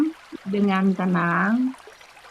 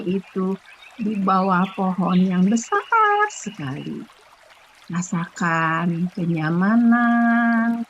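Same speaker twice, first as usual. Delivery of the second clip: guided meditation. Acted. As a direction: ease the listeners into stillness. Leads breathing and meditation.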